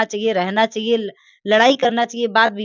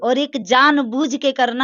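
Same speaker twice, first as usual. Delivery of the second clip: louder, pushing the accusation; heated, raised voice; 4 semitones higher, 5 dB louder than usual. Real, not acted. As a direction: hammer the point home loudly. Heated argument about father's motives. (ज़ोर से आरोप लगाते हुए)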